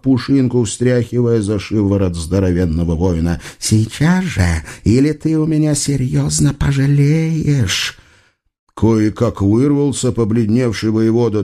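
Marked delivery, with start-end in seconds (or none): 3.6-8.0 witch threat. A narrator's reading. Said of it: "зарычала ведьма".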